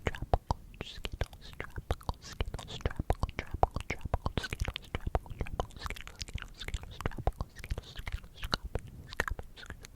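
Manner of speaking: airy, almost wordless mouthed whisper; barely audible whisper, words blurred; inaudible whispering. Shown as a demonstration. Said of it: "another inaudible whispering video".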